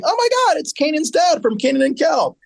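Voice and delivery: squealing high surprise; sudden recognition. Real, not acted. Podcast host recognizing Kanan's dad, squealing high surprise. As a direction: shoot way up in pitch, delighted.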